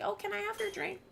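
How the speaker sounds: put-on high sugary girl voice; girly voice. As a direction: chirp it like a sweet girl. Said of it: "when she was like".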